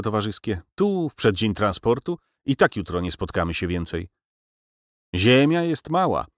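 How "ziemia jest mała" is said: called out. A narrator's reading. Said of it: "zawołał profesor".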